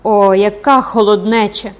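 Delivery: loud, drawn-out sigh of sympathy; compassionate sigh. Acted. Woman pitying a freezing recluse, compassionate sigh. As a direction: exclaim slowly with heartfelt pity. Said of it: "зітхнула перейняти великим співчуттям Ударда".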